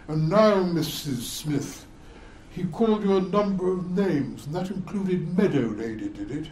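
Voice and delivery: pompous courtroom barrister, hint of it; mild mock courtroom grandeur. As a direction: lightly mimic a barrister's questioning.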